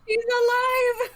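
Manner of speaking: high, loud drawn-out proclamation; mock-triumphant cry. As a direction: cry it out like a mad doctor's triumph. Mock triumph after reviving a patient.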